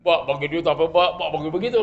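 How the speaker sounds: lightly mimicked wheedling; mild whine, pestering for money; whining beggar. Child begging dad for money, mild mimicked whine. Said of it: "namanya ngerengek tuh".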